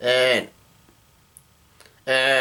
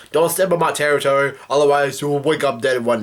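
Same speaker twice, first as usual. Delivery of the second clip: mafia threat. Retold or imitated.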